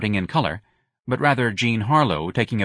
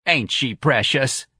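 slow, higher-pitched cooing delight; happy exclamation; 4 semitones higher, slower than usual. Acted. Santa admiring the actress on screen, delighted. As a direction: gush over her, drawing it out. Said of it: "happy exclamations".

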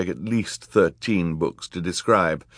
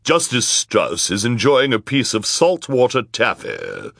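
raised, higher wicked woman's voice; villainess covering up; 5 semitones higher, 4 dB louder than usual. A narrator's reading. Villainous woman explaining away the muffled cries, higher character voice. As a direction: announce the lie in character.

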